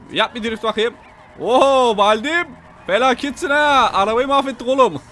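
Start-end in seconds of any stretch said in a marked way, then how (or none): 1.4-5.0 excited shout. Real, not acted. Car wrecked in the game.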